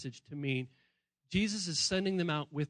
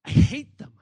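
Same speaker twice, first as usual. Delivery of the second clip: higher, louder hammed-up teen yell; mock angry outburst; 6 semitones higher, 12 dB louder than usual. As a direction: blurt it out like an angry kid. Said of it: "they go".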